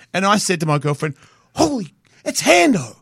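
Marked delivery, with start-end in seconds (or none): 1.5-3.0 high, excited gasp of recognition; thrilled to spot a movie tough guy; starstruck. Retold or imitated. Australian skateboarder tells girlfriend, starstruck and high.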